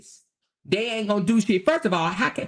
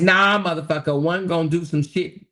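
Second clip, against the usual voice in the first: loud; 4 dB louder than usual. Acted. Reading super chat aloud.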